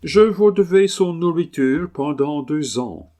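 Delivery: high, loud Englishman's French; English accent. Acted. Englishman owning up to two years' dog food, English accent. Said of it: "l'accent anglais".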